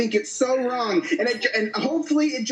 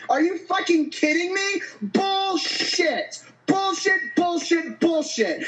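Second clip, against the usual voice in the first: angry rant; 5 semitones higher, slower than usual. Real, not acted. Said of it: "that rant".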